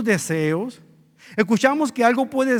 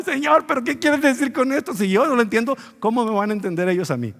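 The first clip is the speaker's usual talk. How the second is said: higher-pitched mock yell of bafflement; retold cry to God; 4 semitones higher than usual. Preacher retells struggling with a hard text, mock cry to God. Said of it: "y gritar".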